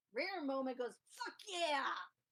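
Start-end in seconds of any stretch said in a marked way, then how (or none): 1.2-1.9 exultant, loud, high triumphant shout. Voicing a character celebrating a closed portal: loud triumphant shout. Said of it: "Not so loud, please".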